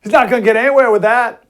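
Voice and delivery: high, loud mock British girl voice; hammed-up British accent; imitating British girl. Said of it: "I think my favorite line is".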